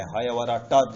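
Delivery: हा, या, व, र, ट ending sharply on a bare consonant ट; halant ट. Shown as a demonstration. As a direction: stop on ट with no vowel after it. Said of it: "त हलंत बोलना है".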